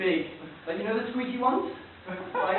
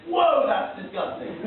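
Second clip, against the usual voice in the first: mock disgust; 3 semitones higher, 4 dB louder, slower than usual. Voices society's outraged reaction.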